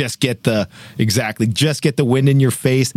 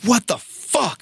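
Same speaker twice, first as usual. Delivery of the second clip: slow, high, rattled "what the fuck"; shaken disbelief; 8 semitones higher, slower than usual. Retold or imitated. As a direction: still shaking, drag the words out. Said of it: "I'm just shaking up".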